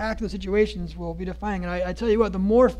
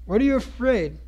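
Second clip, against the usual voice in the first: dramatic scripture reading. Acted. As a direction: read the storm passage like a preacher. Reads Matthew passage aloud.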